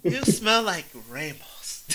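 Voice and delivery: slow tipsy drawl; drunken compliment. Acted. Drunk hero complimenting the healer. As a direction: say it dreamily drunk.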